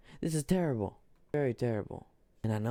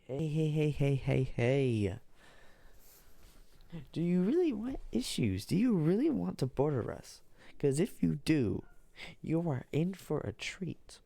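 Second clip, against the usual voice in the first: Russia voice; 3 semitones higher than usual. Acted. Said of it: "Russia's like".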